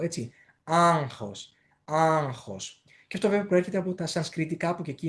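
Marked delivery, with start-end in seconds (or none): 0.6-2.8 ΆΓΧΟΣ with the ng through the nose; nasal ng demonstration. Shown as a demonstration. Teacher showing the nose takes part, ΆΓΧΟΣ with nasal ng. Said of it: "συμμετέχει και η μύτη στον ήχο".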